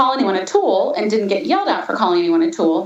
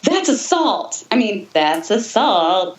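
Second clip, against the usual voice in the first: talking through a clenched smile; through gritted teeth. Real, not acted. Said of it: "smiling and talking through your teeth".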